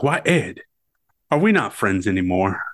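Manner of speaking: lightly voiced Southern drawl; genteel Southern gambler, lightly played; Doc Holliday. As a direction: put on a slight Southern drawl. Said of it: "I'm gonna bust out the Southern drawl".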